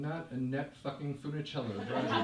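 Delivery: speaking through a laugh; a real laugh running under the thought. Real, not acted. Inner thought, laughing while telling.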